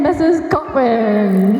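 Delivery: slow, drawn-out toast shout. Real, not acted. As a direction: call it out to the room, slowly. Toast call to the guests.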